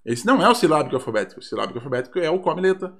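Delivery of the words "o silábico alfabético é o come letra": ordinary talk, nothing marked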